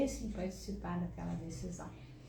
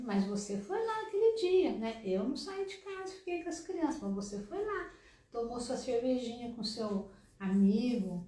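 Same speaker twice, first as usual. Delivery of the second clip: accusing tone; 2 semitones higher than usual. Retold or imitated. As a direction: pile the blame on him. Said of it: "usar sempre o tom de críticas e cobranças".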